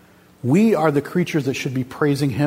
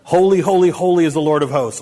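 a touch louder, proclaimed Holy, holy; mock angel shout; 4 dB louder than usual. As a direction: call out Holy, holy like angels crying out. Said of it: "scream out to each other".

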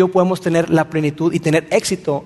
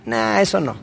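dismissive listener. Retold or imitated. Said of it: "¿Qué dices?".

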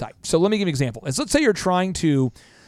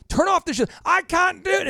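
much higher, strained panicky protest; arguing Scotty. Retold or imitated. Scotty arguing with the captain, high frantic voice. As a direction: argue back like the engines are failing. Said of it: "it's always like he's arguing".

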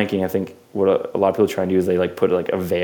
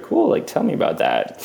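much higher bright "cool"; mock eager; 10 semitones higher than usual. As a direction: play it wide-eyed and eager, high. Playing humble, curious.

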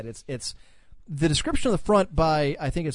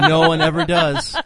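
high, slow, laughing whine; mock self-pity, laughing; 12 semitones higher, 7 dB louder, slower than usual. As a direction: ham up feeling ignored. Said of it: "mock self-pity, high and laughing".

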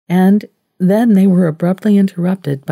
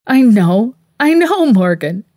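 higher, louder, cutting him off; shout; 6 semitones higher, 5 dB louder than usual. A narrator's reading. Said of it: "she shouted".

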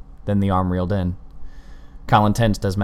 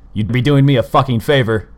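loud angry shout, higher; 5 semitones higher, 7 dB louder than usual. A narrator's reading. Colin shouting at the killer, angry. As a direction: hurl it at him, daring him. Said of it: "Colin shouted".

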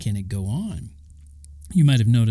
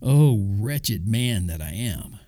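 quoting Paul's lament; slower than usual. Retold or imitated. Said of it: "He said".

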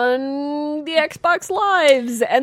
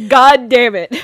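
mock anguish; 8 dB louder, slower than usual. Anguished reaction to bad game.

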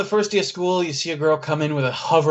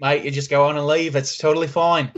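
quick mock New Zealand accent, more Australian; bad New Zealand accent; much faster than usual. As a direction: put on a bad Australian-sounding Kiwi accent. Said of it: "It's not really a New Zealand accent".

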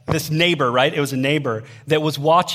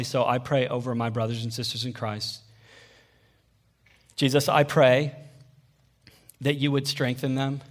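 earnest prayer; 3 semitones lower than usual. Real, not acted. Leads a prayer.

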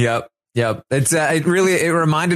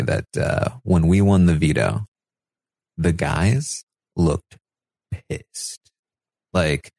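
low conspiratorial murmur; 7 semitones lower than usual. Retold or imitated. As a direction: lean in and plant a secret. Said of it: "Daniel says".

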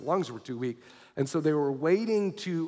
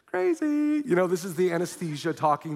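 dismissive nurses; 2 semitones higher than usual. Retold or imitated. Nurses dismiss the patient's story.

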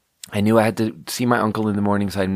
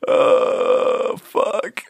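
spent from laughing; 9 semitones higher than usual. Real, not acted. Sighs out after laughing fit.

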